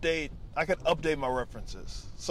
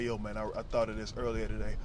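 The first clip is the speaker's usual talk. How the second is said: mock young comic; 7 semitones lower, 5 dB quieter, faster than usual. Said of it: "coming up there working on".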